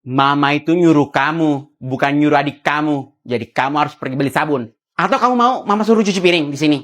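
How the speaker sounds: low, loud motherly scolding; stern mom telling her kid off. Acted. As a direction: lay down the law to the child.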